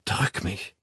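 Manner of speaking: soft, coaxing plea; urging. A narrator's reading. Woman nestling up to her lover, urging. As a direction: urge a lover quietly. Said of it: "drängte sie".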